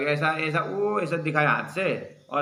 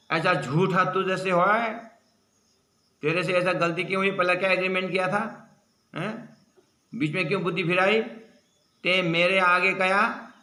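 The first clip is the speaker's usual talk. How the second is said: higher, mild mock angry scolding; 4 semitones higher than usual. Angry man scolding Ibrahim for his broken promise, mild mock anger. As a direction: scold him for breaking his word. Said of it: "भयंकर गुस्सा में".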